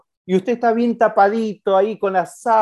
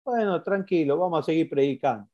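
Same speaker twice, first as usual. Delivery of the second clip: calm, unbothered Jesus; 6 dB quieter than usual. Retold or imitated. Jesus calmly answers the messengers.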